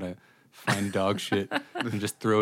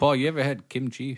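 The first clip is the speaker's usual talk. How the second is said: put-on higher-pitched Massachusetts accent; 4 semitones higher than usual. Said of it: "He has that, like, Massachusetts accent too".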